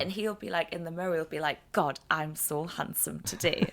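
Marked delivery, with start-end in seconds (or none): 1.7-3.7 smug self-admiration. Retold or imitated. Voicing Michael at the mirror.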